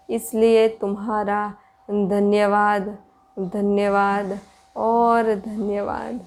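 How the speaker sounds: measured, even-toned meditation guidance with long pauses; spacious, steady meditation voice; guided meditation. Real, not acted. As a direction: guide listeners inward in unhurried phrases.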